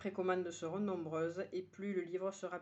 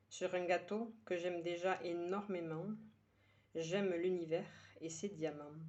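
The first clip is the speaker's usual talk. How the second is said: measured verse reading with pauses between lines; poem recitation. Acted. Poet sharing today's poem with her listeners, measured recitation. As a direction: recite it line by line, letting each one settle.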